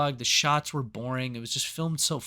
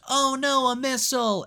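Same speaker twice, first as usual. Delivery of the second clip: high, louder squeal of alarm; mock panic; 10 semitones higher, 4 dB louder than usual. Mimicking the movie character squealing at a missile. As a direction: shriek it like a cartoon sidekick. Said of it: "and she goes".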